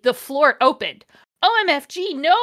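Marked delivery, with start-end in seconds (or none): 1.4-2.3 high, loud hammed-up shriek; mock scream. A narrator's reading. Heroine falling through the floor, high and loud. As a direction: shriek while falling into the hole. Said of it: "I screamed as I fell down".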